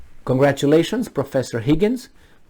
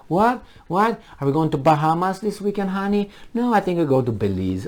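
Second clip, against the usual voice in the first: softer, quick mock couple chat; out-of-touch politicians; 4 semitones higher, 3 dB quieter than usual. Representatives chatting about a weekend in the Bahamas, mock casual. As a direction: lightly voice politicians planning a getaway. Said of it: "that's how they talk".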